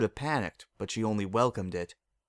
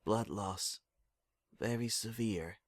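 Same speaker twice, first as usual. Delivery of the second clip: muted doctor voice; 9 dB quieter than usual. Acted. Overheard doctors in dream.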